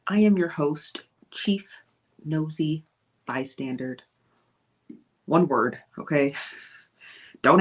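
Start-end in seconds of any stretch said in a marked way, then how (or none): 1.3-4.0 hushed title. Acted. Host introduces self with title.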